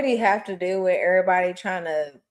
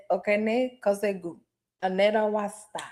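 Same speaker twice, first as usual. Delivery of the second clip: mock Korean; 4 dB quieter than usual. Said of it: "May came over here and said".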